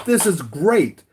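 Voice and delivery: high, loud gloating villain voice; gleeful villain. Retold or imitated. Villain gloating at captured Lois, high loud glee. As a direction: crow it like a cartoon bad guy. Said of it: "He goes".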